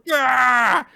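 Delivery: high, loud whoop of triumph; hammed-up victory yell; mock cheer. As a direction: cheer it like a kid winning. Konohamaru cheering in retold fight.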